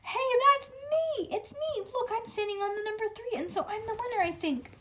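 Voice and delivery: put-on very high, thrilled little-kid squeal; excited child. A narrator's reading. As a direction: burst out high-pitched like a kid who just won. Child discovers she has won.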